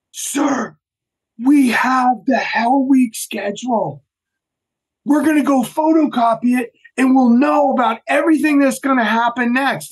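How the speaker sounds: high-pitched, mock-excited trainee voice; eager teammates. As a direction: imitate keen recruits reporting a lucky find. Eager teammates report finding schedule.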